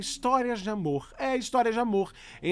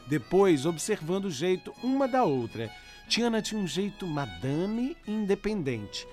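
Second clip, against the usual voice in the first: letter reading. Acted. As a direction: read the letter gently over music. Reads listener's letter over music.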